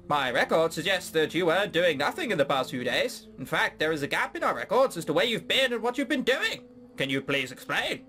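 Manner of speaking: lightly voiced Canadian parrot; questioning official, mild cartoon Canadian; Canadian accent. Parrot interrogates Alex, mild Canadian accent. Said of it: "we have a Canadian parrot".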